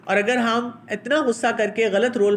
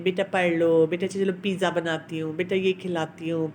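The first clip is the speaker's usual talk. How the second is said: coaxing sweetly; 3 semitones lower than usual. Retold or imitated. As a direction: coo and plead gently, a touch of mock sweetness. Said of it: "پیار کرے گی".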